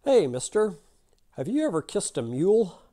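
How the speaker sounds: high-pitched little man calling out; little guy with the upper hand, voice lifted; little fella. Acted. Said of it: "the little fella says to the Texan".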